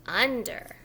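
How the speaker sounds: slow clear model word "Under"; modelled word. Shown as a demonstration. Preschool teacher modelling "Under" before the child tries. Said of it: "Try saying the word under".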